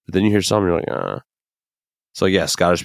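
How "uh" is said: low, quiet mock groan; put-off groan. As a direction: imitate a low groan of distaste. Imitated reaction to bad accents.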